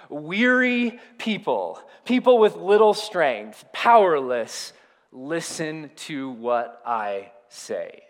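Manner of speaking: measured, weighty call to listen; solemn address. Acted. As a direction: speak slowly to the weary. Voices Jesus addressing the weary.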